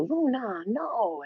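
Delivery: mild scolding. Retold or imitated. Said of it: "but she'll go".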